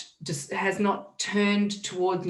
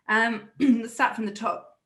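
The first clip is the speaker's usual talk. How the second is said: choking a little; 4 semitones higher, 5 dB louder, slower than usual. Real, not acted. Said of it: "I'm choking a little bit".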